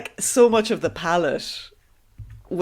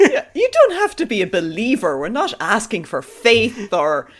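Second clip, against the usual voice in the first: coaxing cultist; 4 semitones higher than usual. Retold or imitated.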